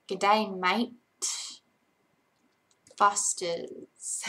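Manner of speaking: lightly put-on Australian accent; mock beer-advert Australian accent. Shown as a demonstration. Streamer parodies a Foster's beer ad, Australian accent. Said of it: "Australian accent".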